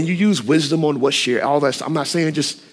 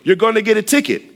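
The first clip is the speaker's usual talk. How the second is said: high-pitched yell with a drawn-out "Hey"; mock yell of warning, high and urgent; acted warning yell; 9 semitones higher, 3 dB louder than usual. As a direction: call out to a speeding driver, pitched well up. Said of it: "I yell at you and I say".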